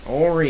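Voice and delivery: Henri said "OH-ree"; French Henri, light N. Shown as a demonstration. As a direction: correct with Henri, the N swallowed. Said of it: "in French they don't pronounce it very much".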